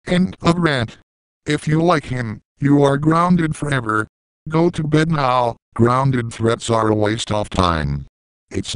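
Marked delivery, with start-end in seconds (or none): 0.1-5.6 put-on high, bossy child voice; squeaky kid threatening punishment; bratty kid. Kid voice grounding the viewer.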